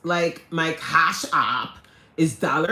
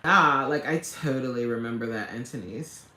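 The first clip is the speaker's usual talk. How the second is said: put-on quick, lower valley girl accent; valley girl talk; 5 semitones lower than usual. Streamer reminiscing with a viewer, imitating valley girl talk. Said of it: "I used to talk like this".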